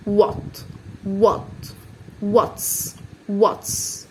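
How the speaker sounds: what's whispered, no voice; whispered model word. Shown as a demonstration. Teacher whispering what's to the pupils. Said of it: "يبقى و".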